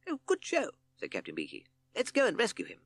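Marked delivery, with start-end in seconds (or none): 0.1-0.7 very high, cheering leader; hearty captain. A narrator's reading. Captain reacting to Owl's news, hearty. 2.0-2.8 high-pitched, eager leader; rally the band, pitched up; rallying captain. A narrator's reading. Captain calling for Toad's rescue, rallying.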